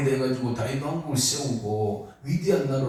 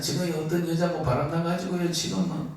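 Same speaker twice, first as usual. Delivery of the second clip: tattling devil; 4 semitones higher than usual. Acted. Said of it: "맨날 고자질 다 한다니까요".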